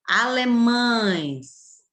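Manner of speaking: Alemães drawn out, ães kept together; very slow model word. Shown as a demonstration. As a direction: stretch out Alemães. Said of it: "ela vai ficar aqui sempre na mesma sílaba". (Alemães bem devagar)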